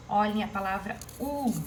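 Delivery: "u" of "último" set apart and leaned on; teacher singling out the stressed "u"; stressed syllable shown. Shown as a demonstration. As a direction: point out "u" by saying it on its own with stress. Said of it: "é minha sílaba tônica".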